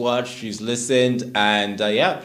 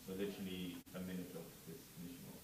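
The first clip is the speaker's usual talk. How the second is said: over a landline phone; 5 semitones lower, 21 dB quieter, faster than usual. Real, not acted. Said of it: "why does it sound like a landline?".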